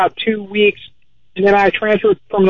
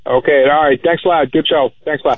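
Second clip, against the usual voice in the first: cave echo; 4 semitones lower than usual. Real, not acted. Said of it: "now you sound like you're in a cave".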